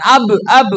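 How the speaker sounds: "ab, ab" each with a little vowel after the b; released AB, wrongly. Shown as a demonstration. Teacher warning students against releasing it, "ab, ab" let go. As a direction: let the b pop open in "ab, ab". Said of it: "jangan dilepas. Nah, bukan ab".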